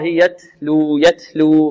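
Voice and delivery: slow "يتلو" with a breath of air released on the ت; whispered puff on ت. Shown as a demonstration. Teacher shows students the breath in the letter, whispered puff on ت in "يتلو". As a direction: let air run through the ت in "يتلو". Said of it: "هنا همس في التاء".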